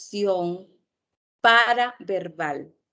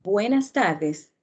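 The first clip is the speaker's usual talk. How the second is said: "Buenas tardes" drawn out slowly, each word given weight; a measured, deliberate "Buenas tardes"; slow greeting; slower than usual. Shown as a demonstration. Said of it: "Por ejemplo".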